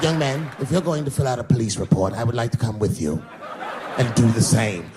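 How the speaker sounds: put-on old white man. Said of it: "old white guy".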